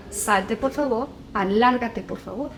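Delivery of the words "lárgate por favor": rude dismissal. Shown as a demonstration. Showing parents the harsh way to send a child out, a rough order. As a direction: throw them out with a rough "Lárgate". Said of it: "No es lo mismo que yo te diga".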